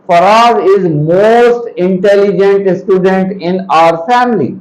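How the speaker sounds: very slow, word-by-word read-aloud; measured, spaced-out classroom reading; slow example reading. Shown as a demonstration. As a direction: spell out the sentence slowly for learners. Reads written example to students.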